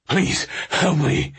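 high, drawn-out cry for help; desperate scream. A narrator's reading. Stranded officer begs a passing truck for help, screaming. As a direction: scream slowly and pleadingly for help. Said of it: "the man screamed".

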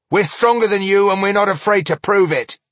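loud, fast gruff threat; threatening dwarf. Acted. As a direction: rush the dwarf's boast.

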